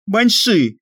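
loud panicked stage whisper; whisper yelling. A narrator's reading. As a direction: hiss the name out in panic. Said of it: "громким шёпотом объявил он в панике".

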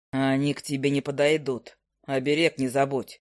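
a grumpy bird drawling down low; low owl familiar. Acted.

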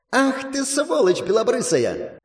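high, slow furious shriek. Acted. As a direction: shriek the insult in rage. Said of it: "Взвизгнула она".

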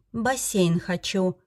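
slow, drawn-out wish; hesitant demand. Acted. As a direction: stretch it while deciding. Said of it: "решила я". (медленно, с запинкой: «бассейн хочу»)

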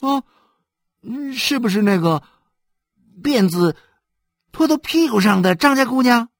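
put-on a curious little boy asking back; young boy voiced.

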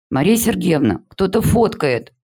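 tattle to the teacher, outraged; indignant. A narrator's reading. Class monitor telling the teacher on a classmate, indignant. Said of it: "возмущённо сообщила староста".

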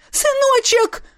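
very high cry of relief; mother crying out to her son in relief; joyful cry. Acted. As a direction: call out to the son.

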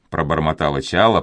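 ordinary delivery

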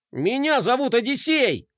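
chest-out heroic announcement; proud declaration. A narrator's reading. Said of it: "гордо заявил Флай".

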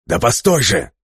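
calling at his back; shouting after him. Acted. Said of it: "закричал ему в спину Папандреу". (крик вдогонку)

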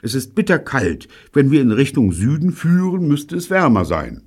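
high-pitched complaint of the cold; freezing cold. A narrator's reading. Jean freezing at sea, high cold complaint. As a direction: complain as if chilled through. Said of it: "klapperte mit den Zähnen".

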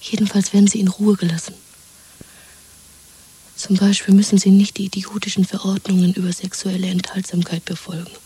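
conspiratorial whisper. Acted. Woman plotting escape with her lover: whisper. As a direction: plot it under your breath.

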